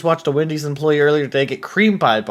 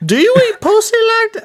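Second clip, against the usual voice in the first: very high falsetto echo; mock squeaky echo; 3 dB louder than usual. Friend parroting a crude question, squeaky falsetto.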